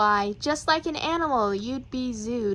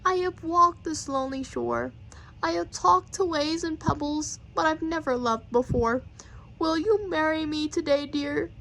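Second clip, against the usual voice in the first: tender proposal; 2 semitones higher than usual. Acted. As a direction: propose gently, almost whispering. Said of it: "Said the turtle to the bagpipe".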